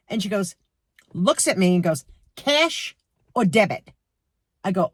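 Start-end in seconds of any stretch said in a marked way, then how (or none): 2.3-3.9 rude cashier. Retold or imitated. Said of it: "It's exactly how she said it".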